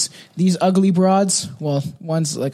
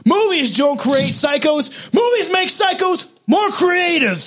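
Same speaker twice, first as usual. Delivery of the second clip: movie villain voice; 10 semitones higher, slower than usual. Pretend. Quoting Scream movie line.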